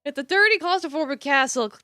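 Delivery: measured, dramatic narrator reading; storyteller setting the scene; story narration. A narrator's reading. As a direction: narrate the scene with deliberate emphasis. Reads game narration aloud.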